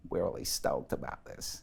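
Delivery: soft, creaky vocal fry. Explaining voice registers and demonstrating the West Coast style: vocal fry. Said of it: "It's called vocal fry. And it sounds like this".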